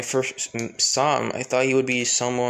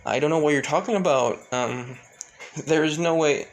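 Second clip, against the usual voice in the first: flustered denial; 2 semitones higher, 3 dB louder than usual. Acted. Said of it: "the girl starts blushing".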